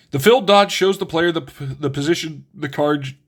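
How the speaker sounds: talking through hiccups; halting words broken by hiccups. Real, not acted. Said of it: "I've got the hiccups".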